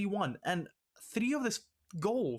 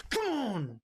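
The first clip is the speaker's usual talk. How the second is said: urging shout; 5 semitones higher than usual. Real, not acted. Urging his team on in-game.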